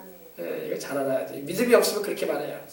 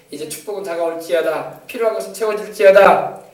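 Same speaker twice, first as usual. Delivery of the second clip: loud, firm decree in Jesus' name; commanding prayer; 6 dB louder than usual. Shown as a demonstration. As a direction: command the blessing to come. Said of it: "우리가 이렇게 고백하고 기도하잖아요". (예수 이름으로 선포하는 명령 기도)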